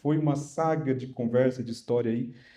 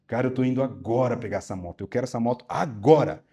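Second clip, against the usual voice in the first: firm, forceful demand, louder at the end; strong voice; 4 dB louder than usual. Retold or imitated. Owner demanding his motorbike from the mechanic, forceful. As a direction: lay down the law to him. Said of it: "botei uma voz bem forte assim".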